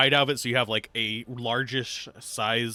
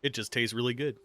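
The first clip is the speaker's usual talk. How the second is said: talking while crunching an apple; chewing between words. Real, not acted. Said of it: "Sorry for the crunch".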